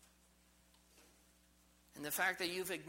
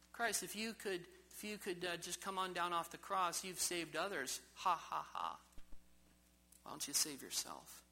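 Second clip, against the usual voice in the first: mocking taunt. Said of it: "You hear your mocking voice".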